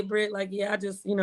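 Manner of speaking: mild, calm imitation. Woman imitating her friend calling her after walking away, subdued. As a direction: play him as too calm to care. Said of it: "You be all like".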